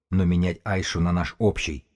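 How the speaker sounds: общий set off at the phrase end with emphasis; deliberate weight on общий; stress on общий. A narrator's reading. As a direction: lean on the word общий. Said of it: "сделал ударение на слово".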